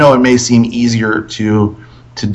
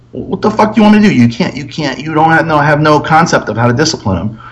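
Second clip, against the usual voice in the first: re-enacted argument, higher voice; exasperated retort; 5 semitones higher than usual. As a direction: act out a frustrated comeback. Retold quarrel with girlfriend.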